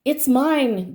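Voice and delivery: a touch of groaning mole; lightly groaning mole; mild groan. Acted. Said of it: "groaned the mole".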